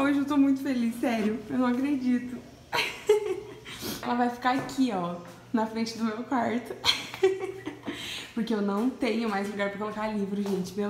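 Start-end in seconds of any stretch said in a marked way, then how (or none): 2.7-4.0 soft airy high laugh; real soft happy giggle; breathy giggle. Real, not acted. Overjoyed about new bookshelf. 6.8-8.3 soft airy high laugh; real soft happy giggle; breathy giggle. Real, not acted. Overjoyed about new bookshelf.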